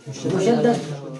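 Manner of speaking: drawn out slowly, syllable by syllable; slow demonstration. Shown as a demonstration. Teacher spelling out the term for students, slow and deliberate. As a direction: stretch "मुशद्दद" slowly so students catch each sound. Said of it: "तो रा".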